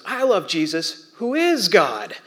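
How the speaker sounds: slow, lightly imitated child voice; sweet little girl. Little girl settling the kids' fight, sweet slow voice. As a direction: take it slowly, rising like a sweet little girl. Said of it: "in the sweetest little voice".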